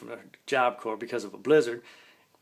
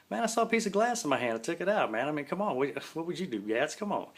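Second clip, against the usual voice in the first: mock pleading; 5 semitones higher than usual. Pleading defence to Gatsmeyer.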